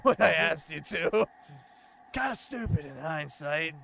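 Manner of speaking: lightly voiced laid-back stoner. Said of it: "giving him the fucking stoner voice".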